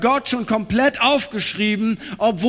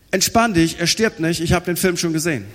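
laid-back reply; 4 semitones lower than usual. Acted. Relaxed friend replies calmly.

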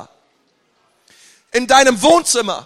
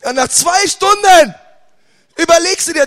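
ordinary delivery

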